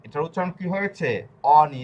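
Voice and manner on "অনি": অনি said with a nasal নি, not অগ্নি; teacher models the word. Shown as a demonstration. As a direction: say অনি with no g sound, নি through the nose. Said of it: "এটা কিন্তু অগ্নি না". (অনি, জি উচ্চারণ না করে নাকে নি)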